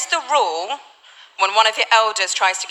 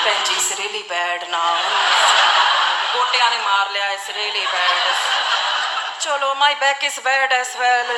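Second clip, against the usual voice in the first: moaning auntie; slower than usual. Retold or imitated. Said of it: "four menopausal women all talking about the state of their joints".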